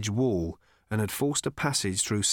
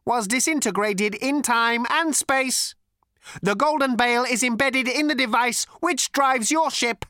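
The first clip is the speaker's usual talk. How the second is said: cold, lifeless robot; 12 semitones higher, 5 dB louder than usual. A narrator's reading. Robot explains its masters' plan, cold and lifeless. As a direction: intone it like an ancient, lifeless machine. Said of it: "cold, sleek, and lifeless".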